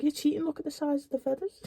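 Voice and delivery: high, fast indignant protest; accusing. Retold or imitated. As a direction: blurt it out like you've been cheated. The guy argues about the feathers.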